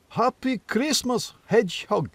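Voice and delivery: slow, high, friendly greeting from a huge deer; talking deer. Acted. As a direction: greet him grandly, drawing out the words.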